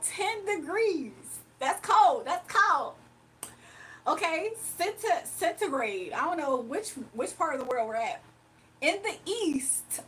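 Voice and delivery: slow, even weather-forecast read; mock weather anchor; news reporter voice. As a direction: play the TV weather presenter. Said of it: "I try to do the news reporter voice".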